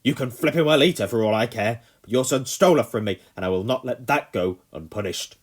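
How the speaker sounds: loud angry snap; snapping. A narrator's reading. Colonel rants on.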